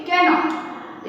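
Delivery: 'cannot' with both parts sounded; cannot pronounced in full. Shown as a demonstration. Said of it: "यहाँ पर हम इसे pronunciation करेंगे".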